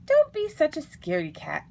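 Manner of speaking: high, loud taunting fox; chiding. A narrator's reading. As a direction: tease and scold a coward. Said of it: "chided a fox".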